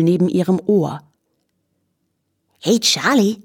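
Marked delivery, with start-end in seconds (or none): 2.6-3.4 lilting Viennese singsong; singsong stable-lad dialect. A narrator's reading. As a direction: call it out in a Viennese stable-boy lilt. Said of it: "sagte jemand in diesem Singsang".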